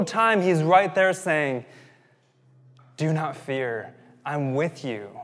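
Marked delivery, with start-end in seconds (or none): 3.0-5.1 slow, settled voice after the frenzy; steady, unhurried promise of rescue; calm reassurance. Acted. Preacher voicing God to frightened people, slow and reassuring.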